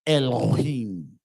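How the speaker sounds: "Elohim" drawn out slowly with a falling end; "Elohim" said slowly, as the wrong reading; the oppressor's reading. Retold or imitated. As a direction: mimic how the oppressor reads "Elohim", slow. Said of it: "he would say".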